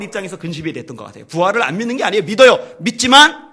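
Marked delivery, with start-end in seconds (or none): 2.2-3.5 loud insistent point; emphatic. Acted. Preacher insisting Paul believes. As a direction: drive it home.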